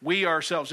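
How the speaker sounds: "We" punched, "ourselves" falling; emphatic. Shown as a demonstration. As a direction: stress on "We" in "We ourselves". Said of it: "it's very emphatic in the Greek".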